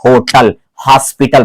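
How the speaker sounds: होटल, हॉस्पिटल with H breathed from the throat; aspirated H. Shown as a demonstration. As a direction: let air start both होटल and हॉस्पिटल. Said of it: "यहां सीने से होकर के हवा निकल रही है".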